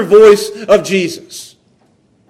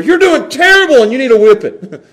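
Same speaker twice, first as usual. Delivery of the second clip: mock scolding, raised and louder; tough dad; 3 semitones higher, 3 dB louder than usual. Dad offering his kids the other voice, tough and critical. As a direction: imitate a dad laying down the law. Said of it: "which voice they wanted to hear from their dad".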